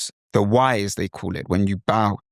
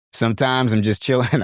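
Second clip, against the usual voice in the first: casual American accent attempt. Shown as a demonstration. Teacher trying out another persona, American accent. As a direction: try an easygoing American accent. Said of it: "may even be an American".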